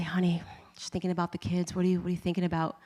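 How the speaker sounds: whispered, worn-out question to her husband; hushed plea to her husband mid-hike; whispered aside. Retold or imitated. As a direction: whisper it, too tired for voice.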